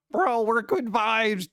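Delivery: high, slow laid-back bro voice; imitating a dude. Quoting people describing the streamer's vibe, mock bro drawl. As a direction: stretch it out like a chill bro. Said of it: "They're like".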